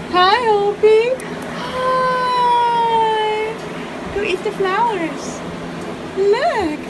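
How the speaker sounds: talking to a pet. Real, not acted. Greeting pet birds with flowers.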